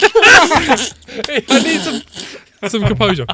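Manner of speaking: high, broken with giggles; fighting back a laugh; stifling laughter. Real, not acted. Composing himself for the voice.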